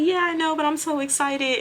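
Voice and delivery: squealing excitement, hammed up; mock excited. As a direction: imitate the coworker bubbling over. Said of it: "she was like".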